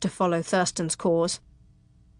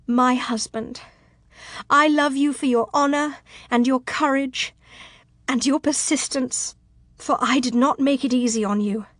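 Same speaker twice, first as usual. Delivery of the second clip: gentle, slightly raised, heartfelt voice; tender love confession; 3 semitones higher than usual. Acted. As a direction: pour out love and apology sincerely. Tearful heroine answers declaration of love.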